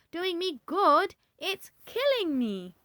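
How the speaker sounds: put-on high, loud, slow shrieking old woman; screaming. A narrator's reading. Grandma screaming about the medicine. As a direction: howl that it is killing her. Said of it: "she screamed".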